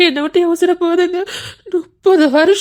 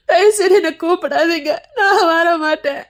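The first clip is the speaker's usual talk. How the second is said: weeping refusal; crying plea. Acted. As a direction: beg through tears, slowing. Begging not to be called.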